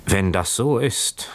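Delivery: slow, mildly tearful plea; a touch of sobbing, drawn out slowly; understated tearful words at slow pace. Acted. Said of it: "schluchzte Keawe".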